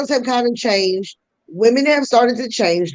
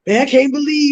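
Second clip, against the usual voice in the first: aggressive guy; 4 semitones higher, 3 dB louder than usual. Retold or imitated. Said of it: "guys can get real like".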